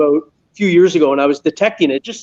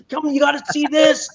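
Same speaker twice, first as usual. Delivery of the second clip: retold scream; 9 semitones higher, 4 dB quieter than usual. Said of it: "I'm scre".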